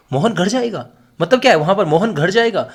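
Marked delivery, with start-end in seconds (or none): 0.1-0.9 mild demonstrated surprise, kept fairly quiet; surprised. Shown as a demonstration. Teacher showing the class a third intonation, mildly surprised. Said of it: "आश्चर्यचकित होकर भी बोल सकता हूँ". 1.9-2.7 understated show of surprise; surprised. Shown as a demonstration. Teacher repeating the astonished version for students, mildly surprised. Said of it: "आश्चर्यचकित होकर आपकी ये बात".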